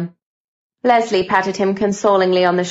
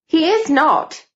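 high-pitched indignant denial; 8 semitones higher, slower than usual. A narrator's reading. Cynthia defends her favourite teacher, indignant. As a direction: leap up in pitch to object. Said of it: "Cynthia said indignantly".

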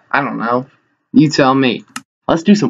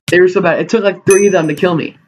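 exasperated outburst; 6 semitones higher, faster than usual. Real, not acted. Disbelief at losing a fight.

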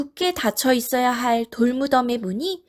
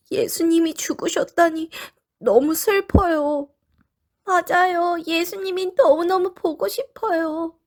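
put-on high, sad little girl voice; child-like character voice; 4 semitones higher than usual. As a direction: voice the grieving women. Women characters voiced in the story.

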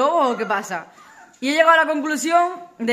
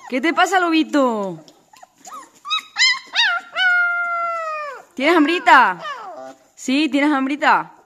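coaxing puppies, raised voice; talking to a dog; 3 semitones higher, 6 dB louder than usual. Real, not acted. Coaxing hungry puppies, loud.

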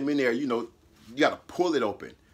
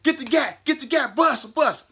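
high, loud threatening yell; bluffing shout; 11 semitones higher, 6 dB louder than usual. Retold or imitated. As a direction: bark it like you're armed. Bluffing he has a gun.

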